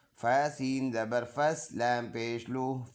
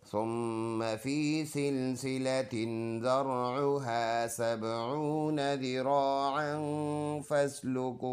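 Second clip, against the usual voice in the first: slow melodic tajweed recitation; Quran recitation; slower than usual. Shown as a demonstration. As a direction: recite the verse in a chanted, drawn-out tune. Recites the verse before spelling. (Quran की तिलावत के अंदाज़ में)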